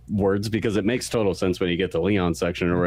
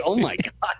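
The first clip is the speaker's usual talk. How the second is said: laughing disbelief; 10 semitones higher than usual. Retold or imitated. Imitating Grace's reaction.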